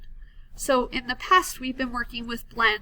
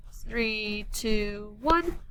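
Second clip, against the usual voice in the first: countdown cue; much slower than usual. Shown as a demonstration. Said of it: "let's read it".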